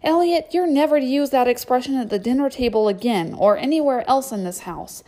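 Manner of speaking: loud, firm mother scolding; stern scolding. Acted. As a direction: lay down the law.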